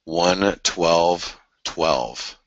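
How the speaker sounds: "one twelve twelve" stretched out very slowly; slow, deliberate "one twelve twelve"; drawn out. Shown as a demonstration. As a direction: lean on each number slowly. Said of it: "he talked about".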